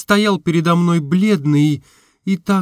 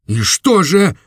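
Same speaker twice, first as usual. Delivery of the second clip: impatient cry; 4 semitones higher, 4 dB louder than usual. A narrator's reading. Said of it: "закричал я в нетерпении".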